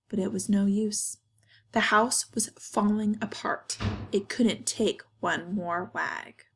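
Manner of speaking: measured, expressive storybook narration; reading to children. A narrator's reading. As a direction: read it to kids in deliberate phrases. Reads picture book to children.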